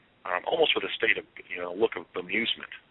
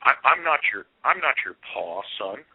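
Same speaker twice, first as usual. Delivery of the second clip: put-on light rustic Pennsylvania farmer accent, a bit higher; 4 semitones higher than usual. Dad denying he is the father, in a light rustic Pennsylvania accent. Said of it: "a rustic Pennsylvania kind of accent".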